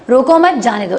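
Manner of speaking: रोको मत run together, then जाने दो; रोको मत as one unit, falling on जाने दो; combined phrasing. Shown as a demonstration. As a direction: join मत onto रोको, stress मत, fall at the end. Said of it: "इसको कंबाइन करके बोलते हैं".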